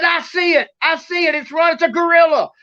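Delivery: high-pitched, urgent spotting call; retold excited shout. Brother Tim spotting the creature, acted excited cry.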